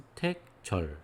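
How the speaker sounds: broken into separate syllables. Shown as a demonstration. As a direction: read "수택절" in deliberate pieces. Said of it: "이렇게". (또박또박 끊어 읽기)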